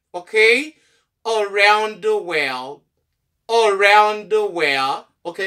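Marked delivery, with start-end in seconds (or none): 1.2-5.1 slow "Around the world", opening on uh; reduced A. Shown as a demonstration. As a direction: spell out "Around the world" slowly, uh-round first. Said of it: "ah, around". ("Around the world" dousman, ak son "ah" devan)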